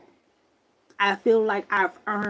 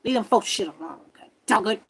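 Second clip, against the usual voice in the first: yelling; 10 dB louder than usual. Retold or imitated. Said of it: "I yell it out the window".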